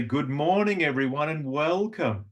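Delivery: lilting greeting with longer words; sing-song. Shown as a demonstration. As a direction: stretch the vowels in a tuneful welcome. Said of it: "Sing-song is full of longer words".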